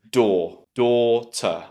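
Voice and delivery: "door", then "daughter" as DAW, tuh; stretched aw in "door" and "daughter". Shown as a demonstration. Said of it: "beginning of the word should be door".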